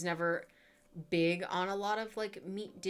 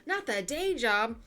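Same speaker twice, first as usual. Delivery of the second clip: laughing tease; 4 semitones higher, 8 dB louder than usual. Real, not acted. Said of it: "slipping into that Florida accent".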